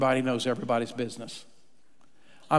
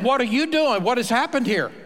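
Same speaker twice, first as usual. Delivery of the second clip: higher and louder, outraged at the stolen seat; mock indignant surprise; 8 semitones higher, 4 dB louder than usual. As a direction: play the shocked churchgoer finding someone in your seat. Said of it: "You come in".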